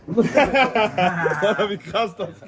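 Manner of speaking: words broken by laughter; laughing. Real, not acted. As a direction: laugh it out in disbelief. Laughing at the round.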